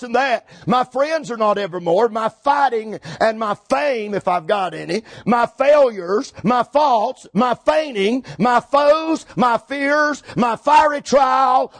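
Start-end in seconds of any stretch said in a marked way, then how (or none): 5.2-11.7 slow, punched list climbing in pitch; preacher's mounting roll call; building list. Real, not acted. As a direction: hammer each item, rising.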